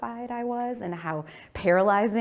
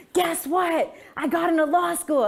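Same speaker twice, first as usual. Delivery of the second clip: high, loud, bursting with news; can't hold in the good news; excited; 10 semitones higher, 4 dB louder than usual. Retold or imitated. Daughter telling her parents the news, excited. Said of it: "I'm so excited".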